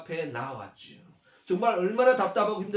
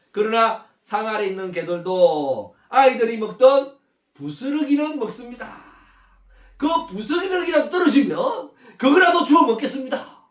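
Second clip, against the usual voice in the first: desperate plea; 3 semitones higher, 4 dB louder than usual. Acted. Mother begging Jesus for crumbs, rising to a desperate cry. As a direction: beg for even the crumbs.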